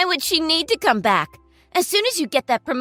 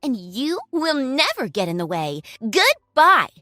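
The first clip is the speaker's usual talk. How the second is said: gloating; 5 semitones higher, 5 dB louder than usual. Acted. Girlfriend gloats over ex-wife.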